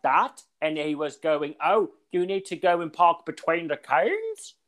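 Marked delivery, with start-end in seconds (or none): 1.6-4.5 mock Northern Ireland accent. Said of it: "speaking in a Northern Ireland accent".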